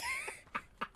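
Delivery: evil laugh. Pretend. Caps the evil farewell.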